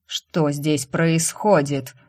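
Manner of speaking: медленно, гремя на весь дом; грозно прогреметь вопрос; прогремевший голос. Acted. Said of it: "прогремел голос дяди". (дядя грозно гремит с лестницы, медленно)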